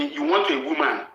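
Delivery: jumps way up high, mocking her wish. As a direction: squeak "want" up high like teasing. High mocking take of repeat.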